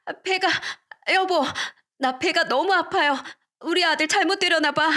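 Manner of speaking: clutch the belly and whimper to your husband; pained moaning. Acted. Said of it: "배를 잡고 구르기 시작했어요". (배를 움켜쥐고 남편에게 고통스럽게 신음하며)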